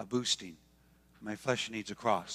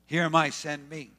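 louder here am I, send me; volunteer with eagerness; mild eager cry; eager offer; 3 semitones higher, 6 dB louder than usual. Retold or imitated. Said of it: "all of a sudden he says".

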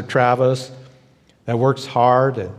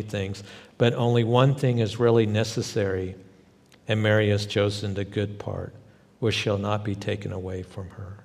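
calm loving voice; 3 semitones lower than usual. Acted. Jesus gently answering anxious Martha, calm and loving. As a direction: speak it with eyes of love. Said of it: "that calm voice and those eyes of love".

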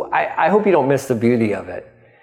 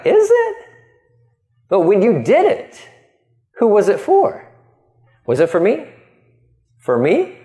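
higher, searching questions; God asking gently; 6 semitones higher than usual. Retold or imitated. Pastor voices God gently probing the people's motives. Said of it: "And God's like".

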